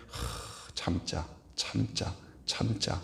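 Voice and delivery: breathy whisper, forcing yourself to calm down; under your breath, telling yourself to hold it in; whispered self-restraint. Retold or imitated. Angry person whispering to himself to hold back. Holding back anger, muttering.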